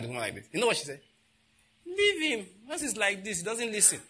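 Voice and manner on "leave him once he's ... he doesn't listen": resigned mother. Retold or imitated. Woman in bank excusing child.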